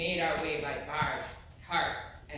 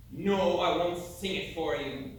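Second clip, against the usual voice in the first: slow, louder, playful no; teasing refusal; 5 dB louder than usual. Acted. Sailor teasingly refuses to sing his ballad to the audience. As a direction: refuse to sing, drawing it out to tease.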